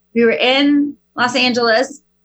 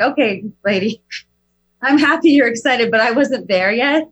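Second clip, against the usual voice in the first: wry tired mom. Retold or imitated. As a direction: humor the kid with tired irony. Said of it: "I'm like".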